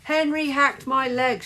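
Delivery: high, loud accusation; shrieked. A narrator's reading. Margaret accusing Henry of a foul, shriek. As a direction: shriek it out to the referee. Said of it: "shrieked Margaret".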